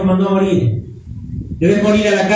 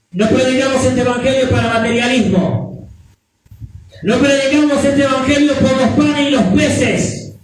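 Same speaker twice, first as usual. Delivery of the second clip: building preacher refrain; 6 semitones higher than usual. Acted. Rising repeated refrain.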